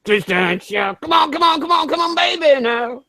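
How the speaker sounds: high, urgent coaxing call; hammed-up come-on-come-on call; mock eager calling. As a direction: coax him on like calling a pet.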